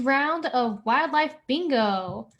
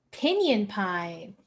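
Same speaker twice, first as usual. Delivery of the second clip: bingo caller; 4 semitones lower, slower than usual. Shown as a demonstration. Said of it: "our next bingo caller".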